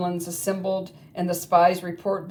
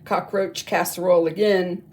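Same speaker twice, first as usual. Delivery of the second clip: louder, eager vow with repeated never; gleeful cry; 2 semitones higher, 5 dB louder than usual. Acted. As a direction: swear it off with delight. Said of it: "they cried".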